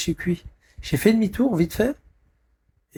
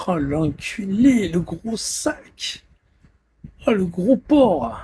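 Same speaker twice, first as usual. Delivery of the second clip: contemptuous insult; 2 semitones higher, 4 dB louder, much slower than usual. Real, not acted. Insulting someone on the stream.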